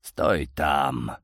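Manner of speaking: low rasping stop order; hoarse command. A narrator's reading. Frightened uncle halting the visitor, hoarse and low. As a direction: rasp a curt halt. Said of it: "сипло перебивая".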